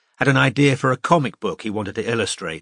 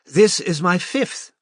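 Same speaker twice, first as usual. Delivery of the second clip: lightly voiced cheerful older man, slowly; cheerful Brendan; 8 semitones higher, slower than usual. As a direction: answer with easy good humour. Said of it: "said Brendan cheerfully".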